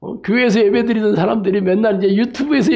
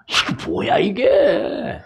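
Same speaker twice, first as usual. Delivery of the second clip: retold bewilderment; 2 semitones higher, much slower than usual. Acts out his own disbelieving reaction.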